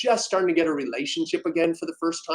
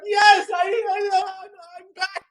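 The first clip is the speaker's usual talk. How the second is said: high, elated cry fading; joyous shout; 14 semitones higher, 4 dB louder than usual. Retold or imitated. Answering the coach, elated cry. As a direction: shout with new relief. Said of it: "crowd answers coach".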